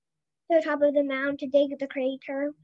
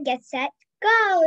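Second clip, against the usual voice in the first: louder, drawn-out start call; yelling start call; 3 semitones higher, 5 dB louder, slower than usual. Acted. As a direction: call the race start loud. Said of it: "yelled Bean".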